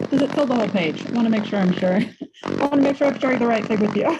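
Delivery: muffled voice over a bad mic. Real, not acted. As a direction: speak as if through a hand over mouth. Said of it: "you sound, um, like, muffled".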